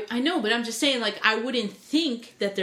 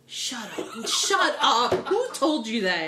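laughing disbelief; slower than usual. Real, not acted. Shocked by news, laughing.

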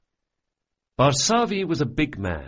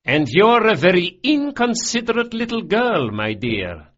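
much higher, louder mock chiding; fond scolding; 9 semitones higher, 6 dB louder than usual. A narrator's reading. Father gently scolding his rude daughter, fond. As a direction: scold her fondly, half laughing.

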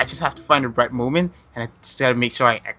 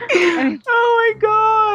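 oh my God squeezed out through high laughter; laughing hard; much slower than usual. Real, not acted. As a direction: crack up so much you can barely speak. Host cracking up at answer.

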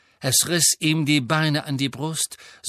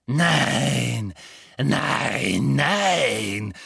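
delighted; much slower than usual. A narrator's reading. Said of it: "Sie schien entzückt".

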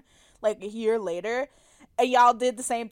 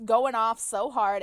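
ordinary delivery

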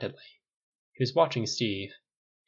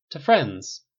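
raised, loud toast; 4 semitones higher, 6 dB louder than usual. A narrator's reading. Steve toasting his friends, loud. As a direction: lift the glass and call it out.

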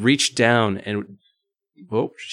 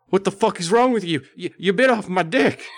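high-pitched outraged shriek; mock scream; 10 semitones higher than usual. A narrator's reading. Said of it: "Bert screamed".

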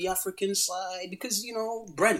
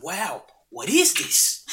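lightly imitated Australian accent, drawn out slowly; amazed Australian friend, mildly mimicked; 3 semitones higher, 4 dB louder, much slower than usual. Imitating a friend tasting fried plantain, mock Australian accent. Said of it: "Is that your Australian accent?".

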